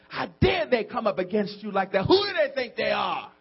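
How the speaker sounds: indignant friend, acted out; mock outrage building to a shout; mad friend. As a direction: take offence on a friend's behalf. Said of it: "your friend get mad".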